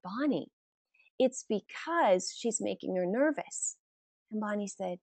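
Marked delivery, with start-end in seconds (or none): 0.0-3.8 softly voiced calm father-in-law; calm reply. Father-in-law calmly explains to his wife at the game, calm. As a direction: mildly imitate an unruffled, quieter answer. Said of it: "he so calmly turns to her and said".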